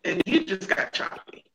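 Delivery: choppy audio cutting in and out; broken-up call voice; radio breaking up. Real, not acted. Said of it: "they said my voice is going in and out".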